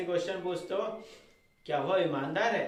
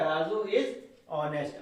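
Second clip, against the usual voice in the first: slow dictation; much slower than usual. Shown as a demonstration. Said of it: "model sentence dictated slowly".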